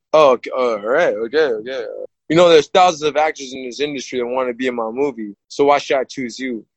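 lightly voiced low movie-star voice; Sylvester Stallone. Movie star answers the fighter who turned him down, lightly imitated low voice. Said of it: "Sly, Mister Sylvester Stallone".

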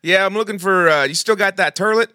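put-on a light girly phone voice; man doing a woman's voice. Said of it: "do your girl voice".

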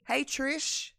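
high-pitched, drawn-in creepy greeting; creepy offstage voice. Retold or imitated. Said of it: "you hear this voice".

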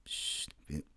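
scharfes, tonloses Verschwörerflüstern; flüstern. Acted. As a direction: heimlich zischend flüstern. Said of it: "müssen flüstern jetzt". (geflüstert)

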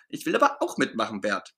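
pouting as he gives up; sulking. Acted. Ernie to busy Bert, sulking after being sent away. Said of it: "schmollt Ernie".

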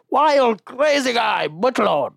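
high, loud hammed-up announcer accent; loud caricature of the club owner hosting; mock club MC. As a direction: bellow the intro like a broken-English emcee. Pete's MC intro impersonated.

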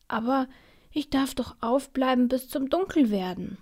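put-on high, whiny protest from a small boy; a boy protesting to his parents, mildly whiny; child protesting. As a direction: object like a child who feels cheated. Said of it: "protestiert Tim".

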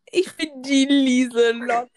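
slow, lightly voiced old granny; a hint of a little old grandma. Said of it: "Du hörst dich an wie meine Oma".

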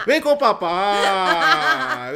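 slow, drawn-out daddy call; mock daddy call. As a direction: call him over like a doting dad. Playful daddy call to Pablo.

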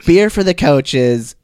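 a light put-on Australian accent, played for laughs; mock Australian accent. Prank caller Tiffany asks the coach questions, light mock Australian accent. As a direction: slip into a half-hearted Australian twang as a fake reporter. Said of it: "Are you a gay Australian".

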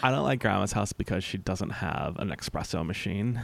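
snooty voice through clenched teeth; millennial spoof voice. Pretend. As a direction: sneer like a spoiled millennial. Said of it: "I like when you do this voice, you just clench your teeth".

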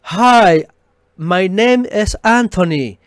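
"Hi, my name is Anthony" in a put-on American English accent, Anthony said the English way; hammed-up American English accent, stretching "name"; wrong anglicized name. Shown as a demonstration. Preacher mocking an anglicized name, put-on American English accent. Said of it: "esas barrabasadas".

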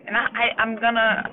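fighting back tears, pitch climbing; voice breaking. Real, not acted. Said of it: "I'm emotional now talking about it".

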